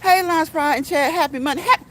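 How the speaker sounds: high, loud, delighted shout-out; excited greeting. Real, not acted. Streamer greeting viewers as they join the chat, excited.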